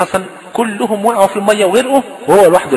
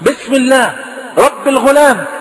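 raised, high declaration; loud proclamation; 5 semitones higher, slower than usual. Retold or imitated. King before all his people, high proclaiming call. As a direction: call it out high over a crowd. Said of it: "وقال بصوت عال قدام الشعب كله".

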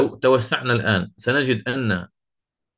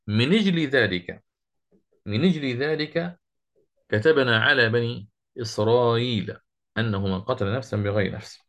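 Quran recitation. Shown as a demonstration. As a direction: recite the verse, kasra in أجل. Recites the verse with kasra.

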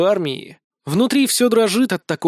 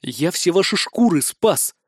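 slow, spiteful declaration. Acted. Son tells his family he saved them, spiteful. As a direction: spit it out with resentment. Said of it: "так злобно".

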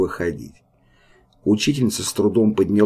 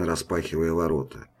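usual speaking voice

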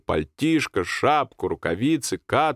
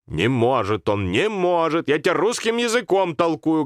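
put-on higher insistent old woman's voice; grandmother insisting; 8 semitones higher than usual. Grandmother refuses Sanka at the door, higher and insistent. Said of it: "говорила бабушка".

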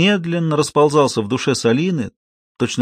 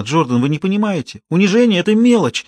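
passionate protest; 7 semitones higher than usual. A narrator's reading. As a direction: cry out that humiliation doesn't matter. (страстный протест)

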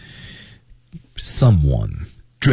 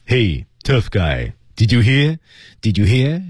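provoking taunt; 4 semitones higher, slower than usual. Shown as a demonstration. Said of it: "这本身就很挑衅的".

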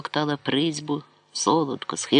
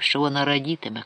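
ordinary delivery, nothing marked

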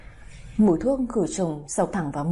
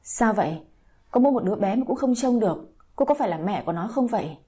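hissing scold; faster than usual. Acted. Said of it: "bà vội rít lên".

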